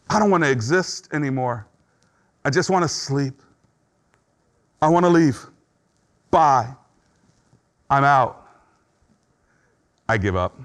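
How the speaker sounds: mildly acted giving up, in short separated phrases; depression. Preacher voicing someone hitting the lowest, in resigned depression. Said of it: "Depression says".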